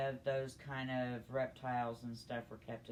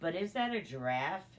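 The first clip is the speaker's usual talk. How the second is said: retold astonished question; 5 semitones higher, 6 dB louder than usual. Child asking dad, astonished.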